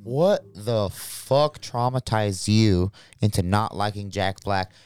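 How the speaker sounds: low, slow mock therapist. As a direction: ask like a calm shrink. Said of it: "Therapist" plus the speaker's name.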